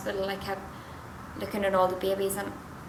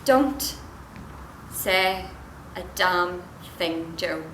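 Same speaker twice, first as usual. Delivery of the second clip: stern warning; much slower than usual. Acted. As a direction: land each word separately, firmly. Cuts husband off.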